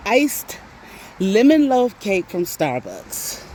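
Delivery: "lemon loaf cake" said slowly, word by word; spelled out slowly. Shown as a demonstration. Spelling out her craving, slow and deliberate. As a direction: lay out the exact order slowly. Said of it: "Not, not lemon cake".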